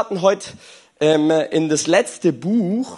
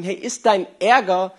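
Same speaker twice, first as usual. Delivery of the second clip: gentle question; 2 semitones higher than usual. Retold or imitated. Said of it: "Und Gott fragt ihn".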